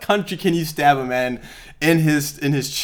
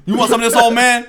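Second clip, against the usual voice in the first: laughing bully voice; 6 semitones higher than usual. Pretend. Acting out Debo scene.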